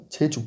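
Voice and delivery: "jeju" with a firmer TCH start; a bit stronger. Shown as a demonstration. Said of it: "un peu plus fort".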